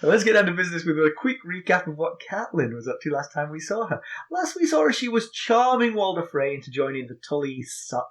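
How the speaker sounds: brisk podcast recap read, a touch fast; lightly voiced announcer recap. Reads the episode recap.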